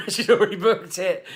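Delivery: high, loud, laughing protest; exaggerated high-pitched excuse; mock defiance. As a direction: plead helplessly in a hammed-up high voice. Rehearses defiant reply to boss.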